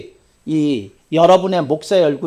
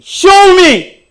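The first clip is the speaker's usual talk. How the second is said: loud, high demand to prove it; forceful preacher's challenge; challenging shout; 10 semitones higher, 13 dB louder than usual. Retold or imitated. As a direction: dare him to prove himself. Pastor retells his challenge.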